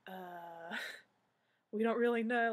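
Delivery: flustered, laughing through the words; nervous laughing. Retold or imitated. Fans stumped by the lady, laughing nervously. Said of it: "we were so, like, in shock".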